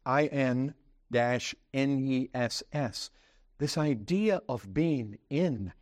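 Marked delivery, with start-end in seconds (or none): 0.1-3.1 spelled out slowly. Shown as a demonstration.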